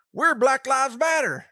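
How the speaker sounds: put-on redneck rallying shout. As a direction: holler it out as a mock redneck. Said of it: "does that mean a bunch of rednecks".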